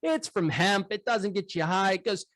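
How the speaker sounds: high folksy farmer voice; dairy farmer. Retold or imitated. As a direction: lift the voice way up for the farmer. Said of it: "And the guy goes".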